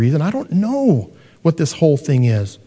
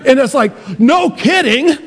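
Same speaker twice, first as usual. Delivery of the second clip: sarcastic; 10 semitones higher, 4 dB louder than usual. Real, not acted. Sarcastic aside.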